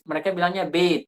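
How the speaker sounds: "bait" said as "bet" with a long e; Arabic bait. Shown as a demonstration. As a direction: pronounce "bait" like the Arabs, bet. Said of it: "bilang-bilang bait". ("bait" dibaca "bet")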